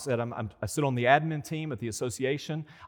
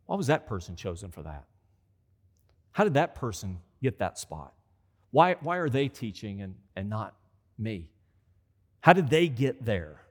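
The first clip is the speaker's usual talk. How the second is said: inner envy; 4 semitones lower than usual. Retold or imitated. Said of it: "compare yourself to them".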